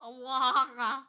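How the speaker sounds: "Allah" drawn out long and loud; reverberating imitation. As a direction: let the first vowel of "Allah" resound. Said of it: "The way she said it".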